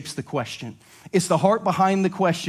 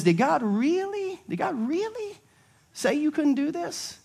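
high, slow, passive-aggressive 'really'; mocking Satan; 10 semitones higher, 3 dB quieter, slower than usual. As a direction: tempt with a sneering high question. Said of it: "Satan says".

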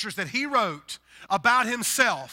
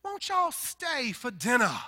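Southern host invitation; 5 semitones higher, slower than usual. Retold or imitated. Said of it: "what people do in the South".

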